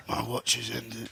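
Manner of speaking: slow, gruff mock-solemn delivery; gruff low voice. Actor parodying how low the cast speaks, gruff. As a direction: play at speaking as gruffly as you can. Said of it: "trying to compete to how low they can speak".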